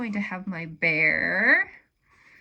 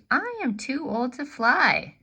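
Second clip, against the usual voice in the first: put-on higher, louder old-bird complaint; voicing the bird; 5 semitones higher, 6 dB louder than usual. Old bird tells the bear his problem, higher and louder. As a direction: lament being too old, pitched up and louder. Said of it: "And the bird says".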